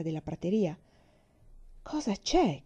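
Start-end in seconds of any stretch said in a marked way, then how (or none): 1.8-2.6 higher, urgent question; pitched-up insistent question; anxious repeat. Acted. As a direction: ask again, more worried now. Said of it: "chiese di nuovo mamma".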